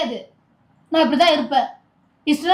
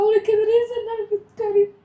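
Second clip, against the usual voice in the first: crying; 2 semitones higher than usual. Acted. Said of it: "இப்ப எதுக்கு திவ்யா அழுதுகிட்டு இருக்க".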